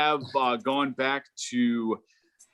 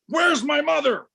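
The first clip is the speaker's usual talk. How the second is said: confused mother yelling for her own mother; mock yell; 13 semitones higher than usual. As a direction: shout it up high like a lost old woman. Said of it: "she starts to yell".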